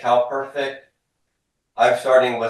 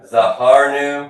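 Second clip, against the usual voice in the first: "Zahar nu" slow and a bit louder, each syllable clear; slow model for repetition; 4 semitones higher, 6 dB louder, slower than usual. Shown as a demonstration. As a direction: lay out "Zahar nu" slowly for the class to echo. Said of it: "Everybody says to me".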